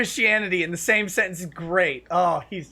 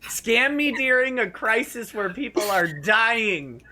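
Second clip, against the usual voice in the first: sarcastic glee; 5 semitones higher, slower than usual. Retold or imitated. Sarcastic welcome to scammer.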